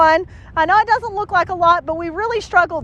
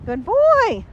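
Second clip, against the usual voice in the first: praise; 5 semitones higher than usual. Real, not acted. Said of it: "Notice I'm doing a lot of praising".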